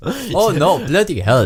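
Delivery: put-on botched Indian accent turning camp German; camp German-sounding accent. Stranded man panics, camp German-sounding accent. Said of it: "You just sound like a gay German".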